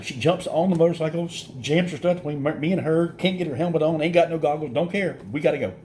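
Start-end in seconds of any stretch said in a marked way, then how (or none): none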